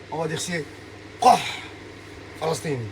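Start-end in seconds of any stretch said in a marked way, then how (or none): 1.2-2.8 isolated guttural "Qah"; Palestinian Arabic sound. Shown as a demonstration. Showing a friend how Palestinian differs, throaty "Qah". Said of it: "ça, c'est autre chose".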